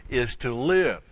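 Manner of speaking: "live" lifted and leaned on; stress on LIVE. Shown as a demonstration. Preacher explaining the righteous one's daily walk, stressing "live". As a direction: land firmly on "live" with a pitch swell. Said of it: "He puts the emphasis here on the living".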